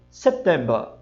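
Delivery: September britânico; British September. Shown as a demonstration. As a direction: cut the final R of September. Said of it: "Se ele disser só o mês".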